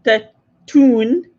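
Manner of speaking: "tune" said as toon, long oo; dialect toon. Shown as a demonstration. Prompting the learner's next word, "tune" drawn out as toon. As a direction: model "tune" clearly as toon. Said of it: "no, ganning doon".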